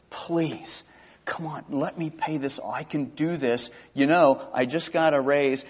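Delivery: hushed pleading request; pleading servant. Acted. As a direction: coax him gently to let you pay.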